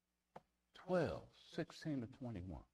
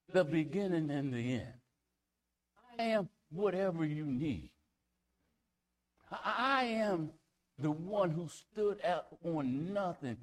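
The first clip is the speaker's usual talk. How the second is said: louder, rising preacher's cry; full-force preaching; 3 dB louder than usual. Acted. Preacher to congregation declaring God's names, full force. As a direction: preach it out, building to a roar.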